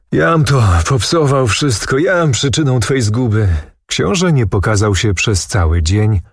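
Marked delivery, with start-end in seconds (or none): 0.1-3.5 a higher, despairing cry of self-blame; anguished outcry. A narrator's reading. The swordbearer cries out in despair after the prince leaves. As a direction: wail it as if tearing your hair. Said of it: "zakrzyknął".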